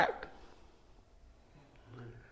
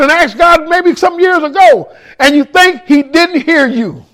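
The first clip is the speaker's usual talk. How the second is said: preaching. Acted. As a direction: direct appeal to the room. Preaching to the congregation.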